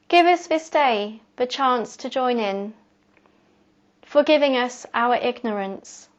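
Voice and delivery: measured, prayer-like poem reading; prayer-poem recitation. Acted. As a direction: recite it as a prayer, pausing after each phrase. Recites reworked Lord's Prayer poem.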